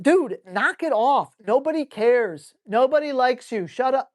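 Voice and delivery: dismissive acted rebuke; telling off a dog. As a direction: firmly put the dog in its place. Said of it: "No, tell him".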